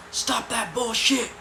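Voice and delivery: high, drawn-out scolding yell; imitating a guard telling kids off; mock guard shout. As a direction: bark it out like an irate guard. Guard yelling at the boys.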